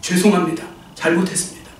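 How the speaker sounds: low, fading apology, the last word nearly whispered; weeping apology. Retold or imitated. The killer cries out his apology, a soft tearful imitation. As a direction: let the sorry fade into tears. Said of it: "그 사람이 막 울어요".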